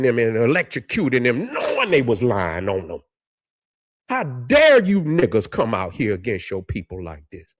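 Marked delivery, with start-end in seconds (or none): 4.1-7.5 low, biting how dare you; furious rebuke. Real, not acted. A man scolding people who turn on their own, furious. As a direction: scold them with contempt. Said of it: "Man, I'm so heated".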